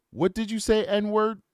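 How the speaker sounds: mildly acted angry demand; hostile challenge. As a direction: imitate an affronted, hostile stranger. Retold hostile man's confrontation.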